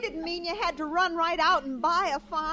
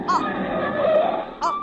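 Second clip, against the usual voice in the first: high loud shocked cry; horrified gasp; 5 dB louder than usual. Acted. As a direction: choke on shock at the sight. Daughter horrified by the house.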